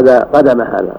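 قدم said qadama, with a vowels; corrected vowels. Shown as a demonstration. Teacher correcting the student, قدم voiced as qadama. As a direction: model قدم as qadama for the reader.

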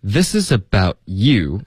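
slow linked sentence, YOU stressed; measured teacher's demo of "this is about you being a brat"; model reading. Shown as a demonstration. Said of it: "我们把这个句子读一下". (慢速连读示范，重读 you)

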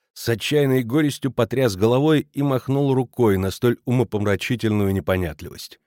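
plain reading voice

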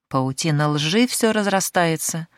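slow, biting sarcasm; sarcastic remark. Acted. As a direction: drawl it out mockingly. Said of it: "язвительно воскликнула Шахразада".

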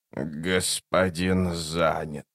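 very low, slow, soft monster voice; creature voice. A narrator's reading. The creature speaks.

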